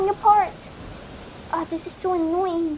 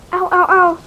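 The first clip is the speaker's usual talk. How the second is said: pain; 7 dB louder than usual. Acted. Sand hurts her feet.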